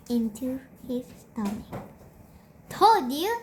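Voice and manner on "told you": put-on higher sing-song little-boy taunt; Peter gloating. A narrator's reading. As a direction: rub it in, teasing. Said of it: "said Peter".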